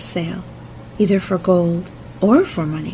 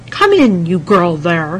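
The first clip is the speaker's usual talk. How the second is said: loud call, pitched up; 6 dB louder than usual. A narrator's reading. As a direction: call her in from the window. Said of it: "he cried".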